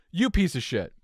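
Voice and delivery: hissed under the breath; whispered insult. Retold or imitated. Driver muttering at crashed BMW, whispered. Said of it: "Like, and".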